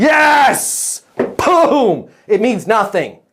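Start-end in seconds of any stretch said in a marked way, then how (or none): 0.0-2.1 high, loud celebration of the answer; excited cheer. Real, not acted. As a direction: cheer like a goal. Student answered right.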